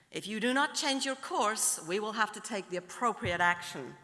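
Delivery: lightly acted American captain's warning; formal warning with a hint of American; slight American accent. American captain threatening action, slight American accent. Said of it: "do a slight American accent".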